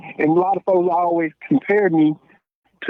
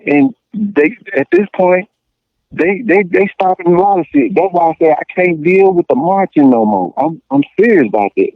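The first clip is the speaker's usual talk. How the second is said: heated rant; 3 semitones higher, 6 dB louder than usual. Real, not acted. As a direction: push it out loud, getting worked up. Heated rant about boycotting.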